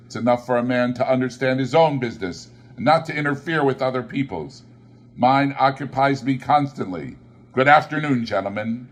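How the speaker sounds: quick curt dismissal; brusque Scrooge. Acted. Scrooge curtly sending the gentlemen away. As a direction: wave them out the door.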